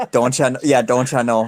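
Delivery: Minnesota accent with a Canadian-style lilt.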